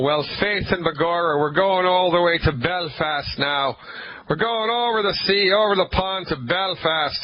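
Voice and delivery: playful mock-Irish radio intro; bad Irish accent. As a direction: announce it in a badly faked Irish brogue. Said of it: "please excuse my bad Irish accent".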